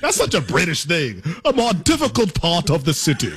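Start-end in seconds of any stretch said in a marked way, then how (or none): 1.4-3.3 laughing mockery. Real, not acted. Mocking the British phrase.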